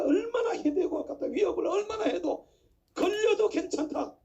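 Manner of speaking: preacher building a grievance phrase by phrase; impassioned preaching. Acted. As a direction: lament and protest from the pulpit. Preaches political indignation to congregation.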